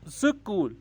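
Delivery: स्कूल in two beats, su-kool; syllable break. Shown as a demonstration. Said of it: "जहाँ पर आवाज़ टूटती है". (स्कूल को सु-कूल दो हिस्सों में)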